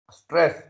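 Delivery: "stress" said firmly, weight on the R. Shown as a demonstration. Teacher showing how stressed letters sound, firm R in "stress". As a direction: push the R in "stress". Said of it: "you say that word more loudly".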